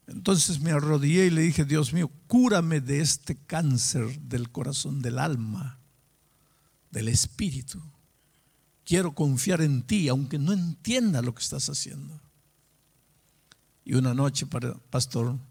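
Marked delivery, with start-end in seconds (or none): 1.7-12.2 measured, subdued plea after the outcry; sincere prayer. Retold or imitated. Man on his knees asking God for healing, sincere. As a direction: pray it earnestly, pitch settled.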